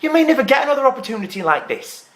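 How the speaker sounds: worked-up, accusing argument; indignant protest. Acted. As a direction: argue your case in outraged disbelief. Acted quarrel over the show.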